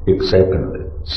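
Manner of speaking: "ਇੱਕ ਸੈਕਿੰਡ ਦੇ ਵਿੱਚ" breathed out in a soft whisper; whispered echo. Real, not acted. Preacher whispers "ਇੱਕ second ਦੇ ਵਿੱਚ" back to the congregation. Preacher echoes the key phrase.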